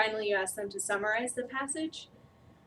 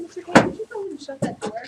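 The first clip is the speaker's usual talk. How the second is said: louder, quick call across the room; 8 semitones higher, 11 dB louder, faster than usual. Real, not acted. Trainer asking Mister Kay to shut the door, calling out. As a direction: call out to him, quick and loud.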